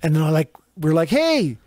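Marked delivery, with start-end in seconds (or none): 1.1-1.6 high-pitched mock call across traffic; retold yell. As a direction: call out to the next car, half-yelled. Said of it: "we yell over to the car".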